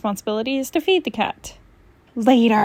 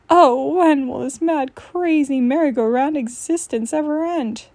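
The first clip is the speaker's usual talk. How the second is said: mock lament; 4 semitones higher than usual.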